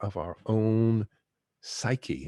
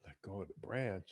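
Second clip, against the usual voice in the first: much softer, in the teacher's own voice; soft reflective repeat; 13 dB quieter, faster than usual. Real, not acted. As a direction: let the words sink in quietly.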